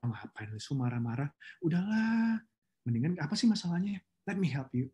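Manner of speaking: gently defuse the angry colleague; soothing friend. Shown as a demonstration. Speaks to an emotional office friend, soothing. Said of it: "teman kantor suka emosi".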